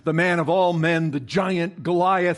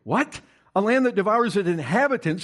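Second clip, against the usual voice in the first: incredulous retort; 5 semitones higher than usual. Retold or imitated. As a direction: throw the claim back in disbelief. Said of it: "Joshua and Caleb look at that and they say".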